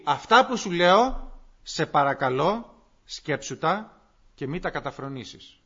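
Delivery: starts firm, then slows and softens into a plea; pleading request. Shown as a demonstration. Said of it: "Λέει". (παράκληση που μαλακώνει)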